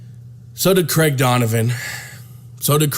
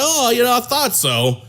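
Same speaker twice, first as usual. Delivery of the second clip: higher voice, laughing through the words; laughing reply; 8 semitones higher than usual. Retold or imitated. Woman answering the man with a laugh in her voice. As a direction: giggle out a knowing reply. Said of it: "She was like".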